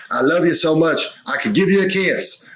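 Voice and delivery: high-pitched gush of relief; retold elated yell. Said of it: "I think I yelled out".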